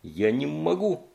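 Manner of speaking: slow, strained cry of despair; desperate cry. Acted. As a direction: plead through tears, near fainting. Cody near fainting, crying out.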